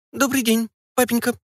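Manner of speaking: put-on high little squeak of a girl; shy squeak. Daughter shyly greeting her father, high squeaky girl's voice. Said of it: "пискнула, опустив очи долу Ольга".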